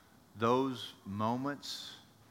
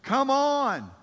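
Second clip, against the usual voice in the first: daring Jesus; 12 semitones higher, 6 dB louder than usual. Acted. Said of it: "And Jesus says".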